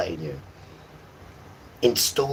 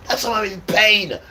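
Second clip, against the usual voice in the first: in pain; 12 semitones higher, 6 dB louder than usual. Retold or imitated. Boy in pain.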